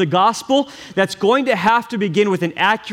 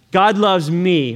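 slow call and response; slower than usual. Shown as a demonstration. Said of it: "I want you to say this".

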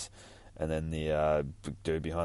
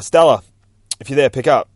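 radio call; 7 semitones higher, 12 dB louder than usual. Acted. Radio call voiced in comic reading.

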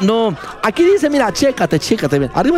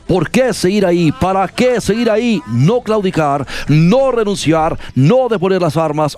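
a mock-solemn read of the quote, lower; solemn dramatic reading; 4 semitones lower than usual. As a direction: read it like a grave farewell speech. Rereads the quote to close. (lectura solemne y dramática, en tono de burla)

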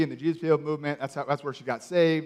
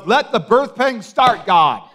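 high, loud mock prophetic cry with a laugh; hammed-up prophetess calling out to God; 5 semitones higher, 6 dB louder, slower than usual. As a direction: belt it like a preacher, half laughing. Prophetess calls out.

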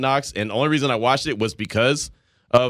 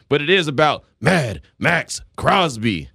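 action mode voice; slower than usual. Shown as a demonstration. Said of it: "having movie trailers".

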